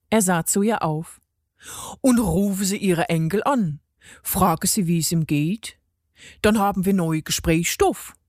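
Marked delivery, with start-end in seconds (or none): 2.0-8.1 lightly voiced dialect-speaking god; Harald, encouraging. Harald urges the lady to call, lightly voiced dialect. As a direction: regional character gently urging.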